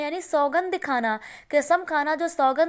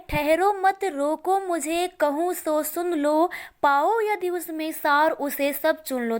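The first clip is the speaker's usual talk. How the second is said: slow, deliberate verse reading; poem recitation. Acted. Teacher reciting Kaikeyi's appeal to the assembly, slow recitation. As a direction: recite in drawn-out metrical phrases.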